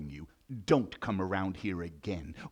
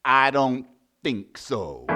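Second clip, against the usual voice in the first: scornful lion; 9 dB louder, slower than usual. Acted. Lion scoffs at mouse's offer.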